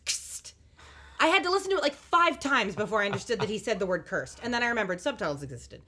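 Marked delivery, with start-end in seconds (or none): 0.1-0.5 imitating a mumbled take. Podcaster repeats the actor's flat delivery, mumbled softly. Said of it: "like this".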